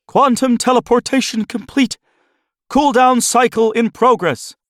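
very high, loud announcing voice; squeaky technician announcing results; high lab announcement. Acted. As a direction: call out the status. Lab announcement after flash.

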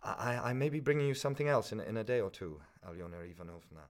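put-on a flustered young man begging for time; student pleading with the pawnbroker, a lightly voiced hurried stammer.

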